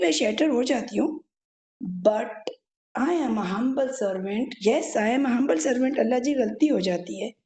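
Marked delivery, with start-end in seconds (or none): 3.0-6.0 calm spoken mantra, slowed right down; slow affirmation. Shown as a demonstration. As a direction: draw out each I am like a mantra. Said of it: "मैंने वो जो visualise करना शुरू किया था ना".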